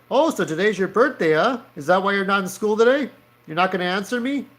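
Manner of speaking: pissed-off officer. Acted. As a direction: grill the kid as a mock annoyed officer. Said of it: "both of these officers look kinda pissed off".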